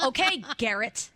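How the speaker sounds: slow, deliberate mock condescension; pointed, condescending. Texter needling Garrett by using his name, pointed. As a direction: draw out the reply to make a point. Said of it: "That's how I hear it in my head".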